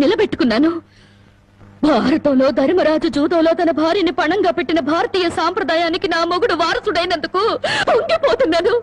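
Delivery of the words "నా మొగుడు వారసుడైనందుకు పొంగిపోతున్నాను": a bitter laugh that breaks toward crying; bitter laugh through tears. Acted. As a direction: laugh at him through your tears, mocking. Wife mocks gambling husband bitterly. (కన్నీళ్లతో వ్యంగ్యంగా నవ్వుతూ)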